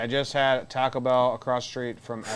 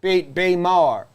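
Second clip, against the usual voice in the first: loud, higher Baltimore-accent chant; 6 semitones higher, 8 dB louder than usual. Shown as a demonstration. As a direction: Baltimore local's clipped name for the city. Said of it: "how people from Baltimore pronounce".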